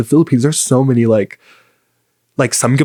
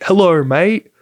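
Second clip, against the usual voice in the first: higher-pitched mock Australian greeting; amateur Australian accent, pitched up; 6 semitones higher, slower than usual. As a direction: greet a friend in put-on Australian. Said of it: "an Australian accent".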